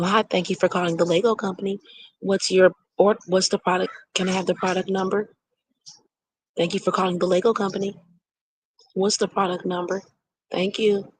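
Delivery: polite phone-rep voice; customer service voice. Shown as a demonstration. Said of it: "my customer service voice went to Harvard".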